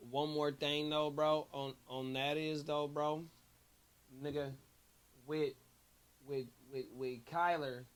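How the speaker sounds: tipsy and rambling. Real, not acted. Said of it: "I'm a little tipsy right now".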